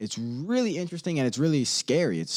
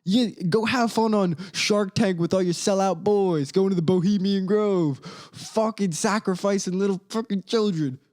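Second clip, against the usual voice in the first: hammed-up higher call-out of a billionaire; mock call-out; 5 semitones higher than usual. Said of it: "old Lookity Duke is gonna tell you".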